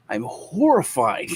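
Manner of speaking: slow, drawn-out I'm horrified; weird horrified. Retold or imitated. Nicholas answering his brother, slow odd horrified. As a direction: stretch out horrified oddly. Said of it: "He said horrified in this weird way".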